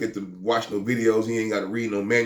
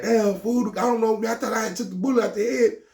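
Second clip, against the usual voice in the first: high, sheepish friend explaining himself; imitating the friend; 13 semitones higher than usual. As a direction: play a rattled friend apologizing. Friend apologizing after shot.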